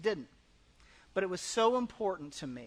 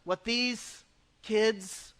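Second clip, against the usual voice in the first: mock indignant, slow and higher; indignant priests; 6 semitones higher, 4 dB louder, slower than usual. Priests scoffing at Jesus about the kids. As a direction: scoff at the children. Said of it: "They were indignant and they said to Jesus".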